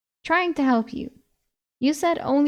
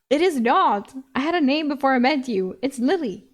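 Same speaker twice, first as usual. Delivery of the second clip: plain reading voice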